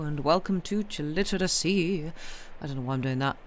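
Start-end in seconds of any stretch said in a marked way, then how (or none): 0.0-2.1 lightly spooky host's welcome; playful spooky greeting. Pretend. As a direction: greet them with a hint of mock spookiness. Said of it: "I guess it's kind of spooky season".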